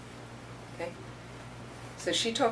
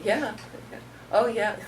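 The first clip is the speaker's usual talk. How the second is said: nervous laugh; 6 semitones higher than usual. Retold or imitated. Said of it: "would nervously laugh".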